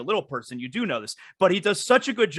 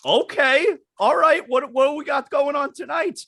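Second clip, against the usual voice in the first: a higher, louder mock hype; mock excited; 7 semitones higher, 3 dB louder than usual. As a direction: pump it up like a curious fan. Excited guests reading the marquee.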